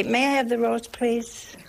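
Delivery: mild, prim table-manners request; polite request. Acted. Sisters asking for the roast at dinner, politely. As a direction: ask nicely, softening on the last word. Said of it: "Well, sisters used to say".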